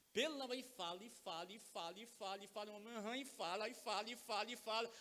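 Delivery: imite um falatório repetitivo, emendando tudo sem respirar; falatório sem pausa. Retold or imitated. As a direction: ladainha em voz mais baixa, encenada. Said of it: "Você não vai respirar?". (imitação de tagarelice sem fôlego)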